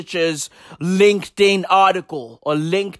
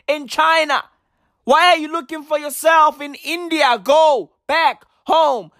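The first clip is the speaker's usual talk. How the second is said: higher, insistent scolding; exasperated rant; 5 semitones higher than usual. Real, not acted. Telling Africans abroad to go home, higher exasperated scolding. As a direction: drive it home with disbelief.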